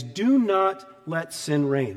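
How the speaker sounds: slow, weighted "Do not let sin reign"; emphatic command. Retold or imitated. Preacher quoting a command to the congregation, slow and emphatic. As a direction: DO NOT said slowly and firmly. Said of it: "he emphatically commands".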